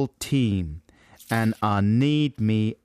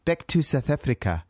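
slight South African accent; 3 semitones higher than usual. Shown as a demonstration. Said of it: "you're saying it with a slight".

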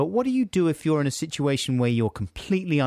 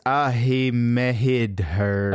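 New York accent; slower than usual. Shown as a demonstration. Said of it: "make you sound like you're from New York".

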